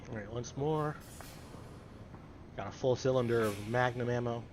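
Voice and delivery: muffled behind a gas mask; speaking through a gas mask filter. Real, not acted. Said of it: "put the gas mask on".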